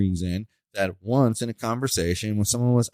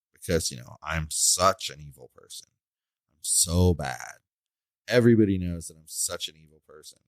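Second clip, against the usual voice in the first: low-pitched, deadpan mock confession; sarcastic self-accusation; 5 semitones lower than usual. Speaker mocking claims about their character, in low sarcastic agreement. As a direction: drop the pitch and feign agreement.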